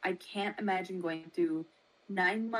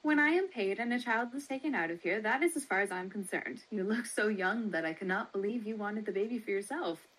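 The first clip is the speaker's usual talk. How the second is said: lightly voiced brisk baby seller, quick; a hint of a brisk matron, fast; much faster than usual. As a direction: rattle it off like a businesslike matron.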